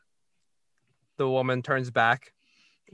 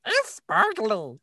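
kobold voice; 9 semitones higher, slower than usual. Retold or imitated. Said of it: "They're like".

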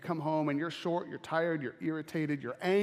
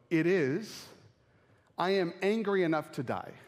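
Jonah's sulky reply; 3 semitones higher than usual. Retold or imitated. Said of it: "and I quote".

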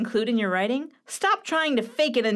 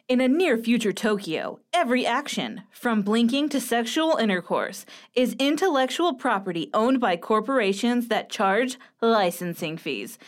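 measured storyteller read; audiobook narration voice. Acted. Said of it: "I'm gonna use my, uh, audiobook narration voice".

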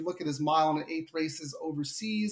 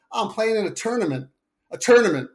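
put-on heavy Long Island accent, raised and punchy; heavy Long Island "tournament", pitched up; 4 semitones higher, 6 dB louder than usual. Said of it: "real heavy Long Island accent".

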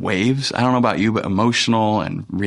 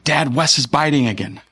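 lightly voiced child, higher pitch; a hint of a kid tattling to a parent; 4 semitones higher than usual. Voices daughter running up to tattle.

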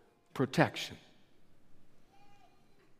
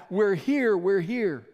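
higher, louder answering call; crying out; 3 semitones higher, 3 dB louder, slower than usual. Retold or imitated. Lost workers answering rescuer's call, higher louder cry. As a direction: call back from the smoke to be found. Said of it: "they began to cry out".

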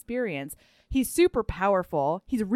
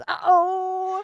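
mock alarm; 9 semitones higher, 3 dB louder than usual. Police arrive, mock alarm.

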